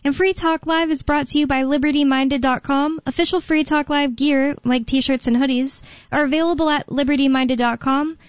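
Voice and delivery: polished talk radio intro read. Acted. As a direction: sell it like a radio host reading the sponsor spot. Host reads show intro and ad.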